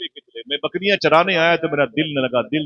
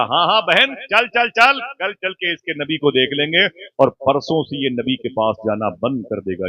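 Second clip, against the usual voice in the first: scheming aunt; 2 semitones higher than usual. Acted. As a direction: voice the aunt agreeing, a bit raised. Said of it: "जुमला reverse करता हूँ साहिबो". (खाला की ऊँची, उत्सुक हामी)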